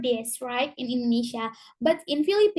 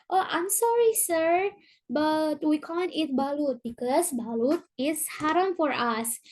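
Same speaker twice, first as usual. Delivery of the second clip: polite apology; 2 semitones higher than usual. Retold or imitated. Student declines the teacher's balut offer, mildly polite and apologetic. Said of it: "if you told them, uh, nicely".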